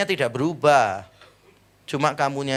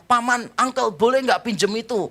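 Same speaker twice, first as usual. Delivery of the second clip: put-on small child; 6 semitones higher than usual. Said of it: "ada anak kecil lihat saya".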